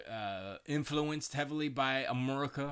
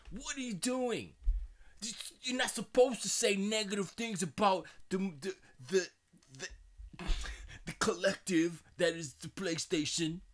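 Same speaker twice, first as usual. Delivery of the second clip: high, stammering mock reprimand; Kaz; 7 semitones higher, 3 dB louder than usual. Kaz telling Jim not to badmouth PlayStation, mock-exasperated. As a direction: scold in a raised, put-on voice. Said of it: "and Kaz is like".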